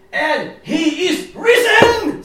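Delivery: high, loud and slow triumphant proclamation with a laugh; mock-triumphant guide's cry; imitating the guide's shout. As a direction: belt it out like the guide proclaiming the tomb is empty. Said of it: "sa han".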